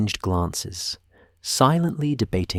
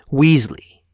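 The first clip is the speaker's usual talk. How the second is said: louder and higher, glass-shattering yell; piercing shout; 5 semitones higher, 8 dB louder than usual. A narrator's reading. Teacher repeating the name even louder, piercing shout. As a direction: let the second call crack through the hall. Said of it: "McGonagall's voice could have shattered glass".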